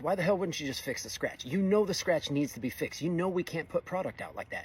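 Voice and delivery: retold scolding, mildly heated; annoyed. Welder confronting coworker over an unfixed scratch, annoyed. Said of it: "this annoys the hell out of me".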